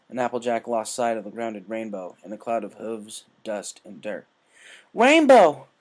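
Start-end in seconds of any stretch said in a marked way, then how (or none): 4.9-5.7 loud, high cry of a name; desperate scream. Acted. Applejack seeing her friend fall, screaming.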